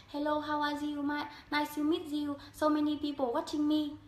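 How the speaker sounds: flat, level English with no rise or fall; flat monotone English. Shown as a demonstration. Vlogger demos flat Vietnamese-style English. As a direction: say it on one flat pitch like a beginner. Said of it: "mình hay nói theo kiểu bằng, bằng, bằng".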